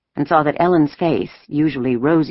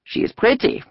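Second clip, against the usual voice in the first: pleasant soldier's remark, pitched up; more pleasant voice; 6 semitones higher than usual. A narrator's reading. Soldier admiring a little girl, more pleasant. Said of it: "in a more pleasant voice".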